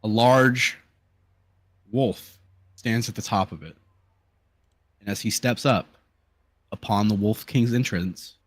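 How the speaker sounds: measured game master narration with weighty pauses; dramatic scene setting. Acted. Game master tells players of the boss's arrival, dramatic narration. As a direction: unfold the boss's entrance phrase by phrase.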